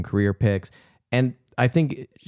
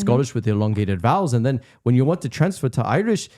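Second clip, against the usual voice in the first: a light, laughing Scottish accent with the vowels stretched; half-joking Scottish accent, said through gritted teeth; 3 semitones higher than usual. Shown as a demonstration. Explaining the choir director's accent trick to podcast co-hosts, in a mock Scottish accent. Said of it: "Okay, now he's doing it".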